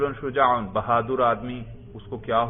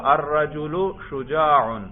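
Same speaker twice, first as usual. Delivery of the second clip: dictation; slower than usual. Shown as a demonstration. Teacher dictating a sentence to translate.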